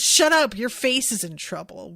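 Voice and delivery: hammed-up cartoon yell; mock dub shout. Quoting the dubbed line to listeners, loud mock yell. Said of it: "In the dub, he says".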